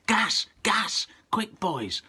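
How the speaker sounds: high, loud alarm cry of gas; sudden high shouted alarm; urgent shout. Acted. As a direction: shout the warning in panic.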